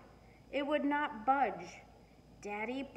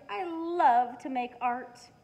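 eager puppy thought; 3 semitones higher, 9 dB louder, slower than usual. A narrator's reading. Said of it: "thought Marley".

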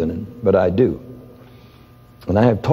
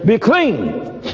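gentle command; 10 semitones higher than usual. Retold or imitated. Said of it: "and says".

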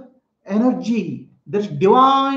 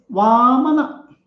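put-on a touch of a cute little boy; cute child; 3 semitones higher, slower than usual. Little boy telling the king his name, lightly cute. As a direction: say it sweetly like a small child. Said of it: "The child cutely says".

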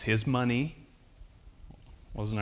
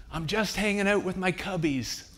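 high-pitched call across an auditorium; raised, high calling voice; imitated yell; 10 semitones higher, 4 dB louder than usual. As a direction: holler it back to a distant friend. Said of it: "he yells up".

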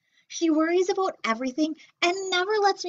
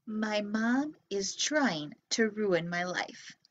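put-on softer, slow sulky kid voice; imitating kid's complaint; 4 semitones lower, 6 dB quieter, slower than usual. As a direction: grumble it like a grumpy child. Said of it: "maybe you're thinking".

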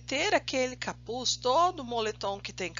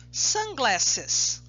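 Sunglasses said quicker, all in one breath; said faster. Shown as a demonstration. Teacher has the class repeat Sunglasses, now faster. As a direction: rattle off Sunglasses at speed. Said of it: "Só que agora vamos falar mais rápido".

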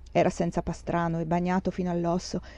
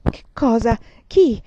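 alarmed question; 3 semitones higher, 6 dB louder, slower than usual. A narrator's reading. Scarlett demands to know who was killed, alarmed. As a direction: blurt it out in alarm. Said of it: "cominciò".

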